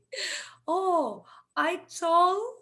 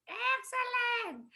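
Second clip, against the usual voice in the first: breathy whispered "excellent"; soft whisper of approval; whispered praise; 8 semitones higher, 6 dB quieter than usual. Acted. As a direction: praise them in a hush. Praising the class softly.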